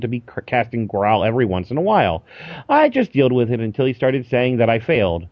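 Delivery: quick podcast mailbag reading; reading email aloud. Acted. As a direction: read a listener's letter briskly to the audience. Reads a listener's email aloud.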